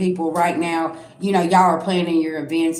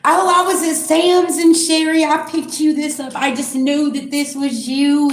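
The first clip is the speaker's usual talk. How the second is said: higher, sugary mock voice, slowing at the end; fake-sweet gift giver; 6 semitones higher than usual. Fake friend presenting an unwanted gift, syrupy mock. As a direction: gush like a phony friend handing over a gift. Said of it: "the ones that smile on your face".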